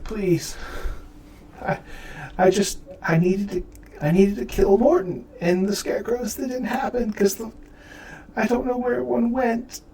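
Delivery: high-pitched, faltering plea; desperate pleading. Acted. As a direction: stammer out excuses on your knees. Lyle on his knees begging.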